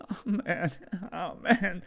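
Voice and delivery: high panicky moan; panicked. Acted. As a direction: panic rising in the voice. Subject distressed.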